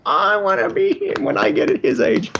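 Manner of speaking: high-pitched eager fanboy recollection; eager childhood self. Retold or imitated. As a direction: lightly act out a kid's wide-eyed admiration. Voicing his admiring childhood self.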